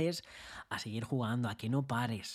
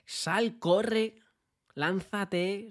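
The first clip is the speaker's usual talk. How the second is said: urging shout; 7 semitones higher, 5 dB louder, much slower than usual. Retold or imitated. Animando a alguien.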